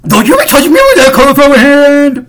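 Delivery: high, loud, squealing mock outrage; disgusted announcer. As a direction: shriek it like a grossed-out announcer. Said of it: "the announcer's like".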